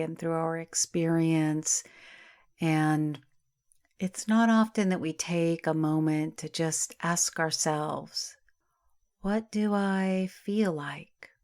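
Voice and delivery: calm, unhurried meditation voice with long pauses; guided meditation. Acted. Yoga teacher settling listeners into Yoga Nidra, guided meditation. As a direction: ease them into rest, phrase by phrase, drawing out key words.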